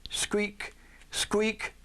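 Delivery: high squeaky little squeak, squeak. A narrator's reading. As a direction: squeak it out high like new boots. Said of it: "most of it sounded just".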